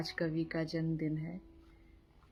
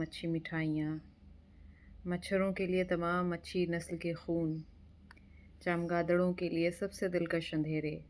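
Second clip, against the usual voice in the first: measured poetry reading with pauses after each line; poem recitation; 5 dB louder than usual. Acted. Reciting a friend's poem for his birthday, measured poetry recitation. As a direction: recite it line by line, letting images land.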